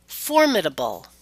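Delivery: "formidable" stressed on FOR; exception stress pattern. Shown as a demonstration. Teacher gives an exception, "formidable" stressed on first syllable. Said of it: "there will always be exceptions".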